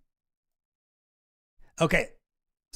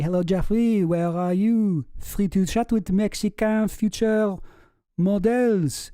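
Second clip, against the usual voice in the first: louder, slow sleazy greeting; mock voiced message; 3 semitones higher, 4 dB louder than usual. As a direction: read it like a smarmy pitch, louder. Reading message in put-on voice.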